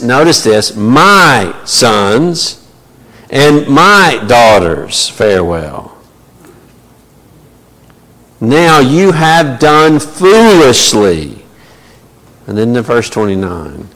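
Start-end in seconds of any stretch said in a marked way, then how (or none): 0.8-11.4 blustering Laban. Acted. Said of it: "he is on a bluster right now".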